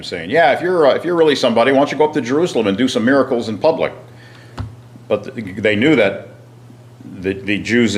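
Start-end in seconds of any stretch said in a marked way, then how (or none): 0.3-3.9 quick, higher-pitched mock challenge; mild taunting. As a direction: lightly imitate brothers goading him to prove himself. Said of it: "his brothers are kind of taunting him".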